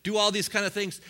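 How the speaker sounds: fast, eager run of wishes; new believer gushing about dreams; eager dreamer. Retold or imitated. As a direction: rattle off big dreams, barely pausing. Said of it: "huge dreams like".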